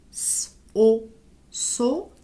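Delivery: hissed S, a firm "o", then blended "so"; teacher sounding out "so" sound by sound; syllable blending demo. Shown as a demonstration. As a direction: sound out S, o, then join them as "so". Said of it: "ça se lit comme ça".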